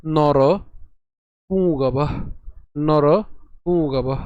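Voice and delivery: নর, pause, পুংগব with the পুং nasalised; nasal pronunciation demo. Shown as a demonstration. Teacher showing the nasal, separated নর and nasal পুংগব. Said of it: "তাহলে উচ্চারণ কেমন হবে?".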